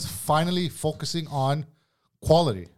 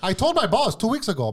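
high, loud start through laughter; laughing; 9 semitones higher, 7 dB louder, slower than usual. Real, not acted. Telling a co-worker about the boss over laughter, high and laughing. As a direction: burst into the story while cracking up.

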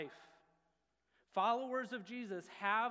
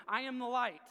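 louder and higher, a pretend self-proclaimed light; mock grand proclamation; 4 semitones higher, 6 dB louder than usual. Preacher mocking someone proclaiming himself the light. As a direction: announce it like a crank preacher in the street. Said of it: "if I was running around telling everybody".

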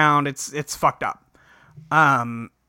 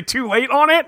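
high, rising "too late"; 1 mock spooky screen voice; 9 semitones higher, 3 dB louder than usual. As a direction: announce it like a taunting screen.

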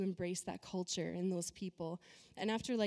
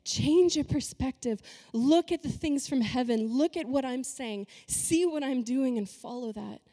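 higher, louder imitated call from above; urging call; 4 semitones higher, 5 dB louder than usual. God calls believers up to change perspective, urgent raised call. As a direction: voice God urging people to look from his view. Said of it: "he's like".

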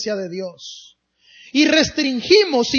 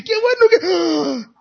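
put-on childlike excitement; 5 semitones higher than usual. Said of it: "la emoción que tenía como niño".

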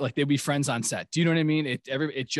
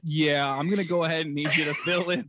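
drawling boss monotone; lazy corporate boss voice; Bill Lumbergh voice; 2 semitones higher than usual. Retold or imitated. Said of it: "Bill Lumberg on it".

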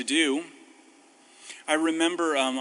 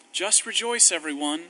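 mock cheerful advice; 2 semitones higher than usual. Mocking the easy advice.

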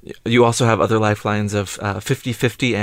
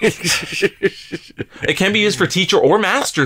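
laughing; 7 semitones higher, slower than usual. Real, not acted. Laughing while explaining.

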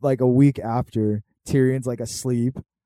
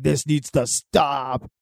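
wise dragon; much slower than usual. Retold or imitated. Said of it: "He's like".

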